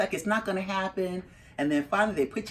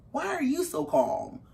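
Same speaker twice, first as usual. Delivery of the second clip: higher-pitched retold disbelief; baffled demand; 9 semitones higher than usual. Mother to her calm son on the phone, baffled. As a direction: question him in rising bafflement. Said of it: "all of a sudden, it just, it occurs to me".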